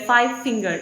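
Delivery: "five finger" with the weight on finger; stress on FINGER. Shown as a demonstration. Teacher giving a number compound example, stress on finger. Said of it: "stress is on the finger".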